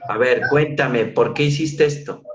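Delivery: a hint of an angry father; mildly stern demand. Shown as a demonstration. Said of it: "pero si le digo". (padre algo enojado que exige)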